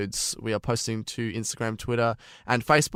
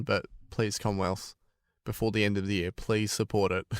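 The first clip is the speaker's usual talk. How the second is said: soft plea; 2 semitones lower, 6 dB quieter than usual. Real, not acted. Appeal to the bank.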